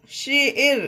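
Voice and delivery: शेर said with an e sound, not शार; right reading. Shown as a demonstration. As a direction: read शेर as in the English word share. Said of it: "इसे शार नहीं पढ़ेंगे". (सही उच्चारण: शेर, शार नहीं)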